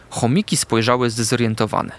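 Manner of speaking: plain reading voice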